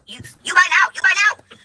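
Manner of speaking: put-on high-pitched caricature of an Asian accent; mock Asian accent. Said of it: "I did the Asian thing".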